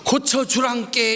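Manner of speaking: 고쳐주란께 in a mock Jeolla accent; a playful try at Jeolla dialect. Shown as a demonstration. Preacher testing another dialect, mock Jeolla. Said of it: "이것도 아니잖아".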